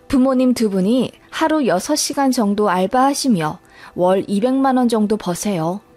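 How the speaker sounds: plain reading voice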